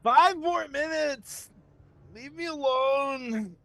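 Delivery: high, slow whiny protest; drawn-out sleepy complaint; grumpy sleeper. Acted. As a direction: whine like a kid refusing to get up. Sleepy character grumbles awake.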